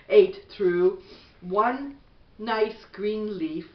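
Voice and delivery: gentle, even bedtime storybook read; reading to children. Acted. Mother reading a bedtime book to her son, gentle storybook voice.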